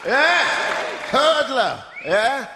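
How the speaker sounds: high-pitched celebrity send-up; mock high voice. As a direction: tease him by squeaking like him. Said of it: "it's like your high voice".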